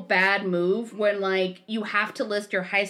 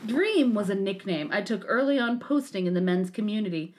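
lowered pompous self-important voice; Anthony Dream Johnson voice. Retold or imitated. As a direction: read it like a smug guru. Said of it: "you're interrupting Anthony Dream Johnson".

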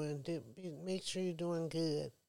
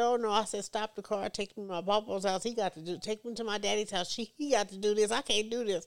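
panicked yelling; 3 semitones higher, 8 dB louder than usual. Retold or imitated.

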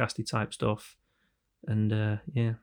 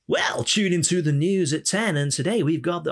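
put-on old-time newsreader; 6 semitones higher, 4 dB louder than usual. Newsreader back in the day opening the bulletin, mock announcer. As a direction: announce like an old news broadcast. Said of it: "back in the day with the news".

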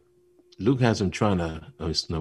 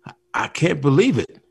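higher, louder, stunned exclaim; disbelieving Luke; 8 semitones higher, 6 dB louder than usual. Retold or imitated. Luke telling Yoda he can't believe it, stunned and loud. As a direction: blurt it out in amazement. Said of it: "he goes to Yoda and says".

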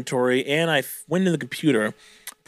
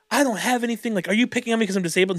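mock indignant; 7 semitones higher, faster than usual. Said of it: "she was like".

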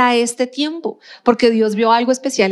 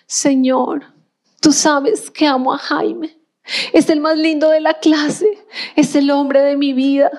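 lightly voiced dreamy girl, a little higher; lovesick teen girl; 4 semitones higher, slower than usual. Preacher imitates a twelve-year-old praying for her crush, lightly. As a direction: play a hint of a smitten girl praying. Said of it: "Se imaginan Dios respondiendo la oración de un adolescente".

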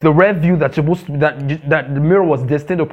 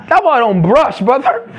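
teasing gossip; 4 semitones higher than usual. Retold or imitated. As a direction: rib him about his smell, laughing. Joking gossip about body odor.

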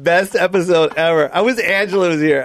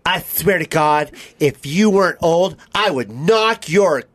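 reenacted threat; slower than usual. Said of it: "I'm gonna play you".

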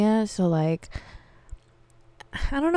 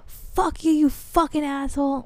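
retold parting insult; 7 semitones higher than usual.

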